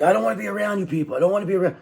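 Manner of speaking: high, fast whining voice; high whiny hermit. Retold or imitated. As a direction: whine to be left alone. Hermit pleading to be left.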